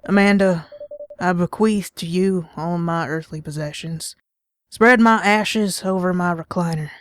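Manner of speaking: mock-dramatic dying words in a light Southern accent. Dad fakes dying to daughter Amanda, light Southern accent. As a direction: ham up a deathbed farewell, lightly Southern. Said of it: "me doing a regular Southern accent".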